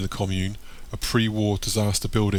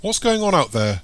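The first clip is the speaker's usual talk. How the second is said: put-on high, loud elderly woman's call; old voice; 9 semitones higher, 5 dB louder than usual. A narrator's reading. Old Missus Tom's behind the door, calling out. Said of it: "an old voice says from behind the door".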